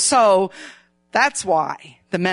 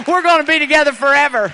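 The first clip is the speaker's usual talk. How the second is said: higher, louder joking through laughs; laughing playful exclamation; 5 semitones higher, 6 dB louder, faster than usual. Real, not acted. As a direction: tease the congregation laughing.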